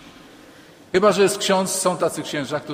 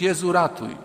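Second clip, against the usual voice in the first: mock cry for help; 4 semitones higher than usual. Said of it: "nie wstydził się krzyknąć".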